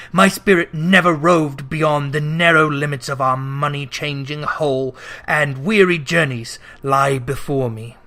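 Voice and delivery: weary ghost. Acted. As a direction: lament endless wandering. Ghost voice held.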